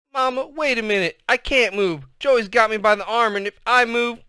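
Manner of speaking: put-on high, loud boy stalling his mother; scared kid protesting; panicked pleading. A narrator's reading.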